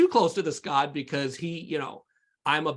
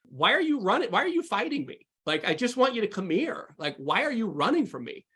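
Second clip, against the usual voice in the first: higher, gentle coaxing voice; tender pleading Jesus; 5 semitones higher than usual. Retold or imitated. Jesus pleading gently with Chris, in a tender higher voice.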